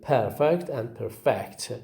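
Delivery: "perfect" stressed first on PER, then on FECT; contrasting stress. Shown as a demonstration. Teacher contrasts noun and verb for students, shifting stress. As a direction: say "perfect" twice, moving the stress to the second syllable. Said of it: "the word perfect receives stress".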